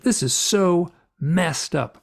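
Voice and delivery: a mild retold scream of despair. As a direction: cry out in anguish, drawn out. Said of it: "I'm, like, screaming".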